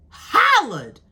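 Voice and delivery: high, loud, drawn-out exclamation; exaggerated loud mocking cry; mock holler. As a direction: holler the word out in ridicule. Echoes how the judge hollered.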